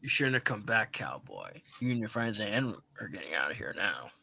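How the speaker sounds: low menacing toy voice. Acted. Villain toy threat, low.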